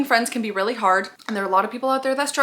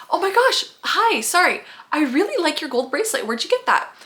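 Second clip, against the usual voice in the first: eager compliment; 5 semitones higher than usual. Acted. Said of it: "here's person A".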